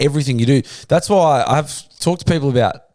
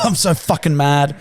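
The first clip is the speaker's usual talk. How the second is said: mock rage, higher and slower; imitating choked anger; 4 semitones higher, slower than usual. Host mimicking the furious caller, mock choked rage. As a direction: playfully mimic someone choking on fury. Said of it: "choked himself 'cause he was so angry".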